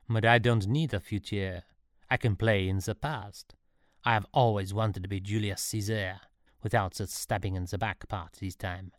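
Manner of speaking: a would-be emperor addressing his subject; lightly accented story character; self-assured ruler's pronouncement; lightly voiced Napoleon.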